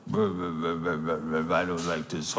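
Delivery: low, slow grumbling mutter; low, slow grouchy muttering. Retold or imitated. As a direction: mutter it low and sour under your breath. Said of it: "like, this low muttering kind of".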